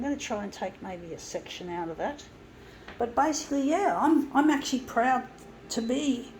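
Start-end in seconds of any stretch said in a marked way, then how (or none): 3.0-6.3 eager restart. Real, not acted. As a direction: pick the thought back up with a lift, "basically" up high. Restarts the thought, more eagerly.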